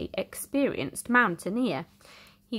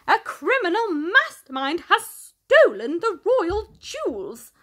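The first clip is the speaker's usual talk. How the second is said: higher, louder alarmed announcement; royal butler announcing; 9 semitones higher, 5 dB louder than usual. Acted. The butler announcing to the Queen, alarmed. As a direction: announce the theft. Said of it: "announces the royal butler".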